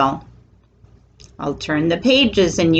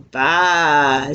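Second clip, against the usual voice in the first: long, low sheep baa; drawn-out bleat like a sheep; 4 semitones lower than usual. A narrator's reading. Storyteller voices the sheep, low long baa. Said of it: "says the sheep".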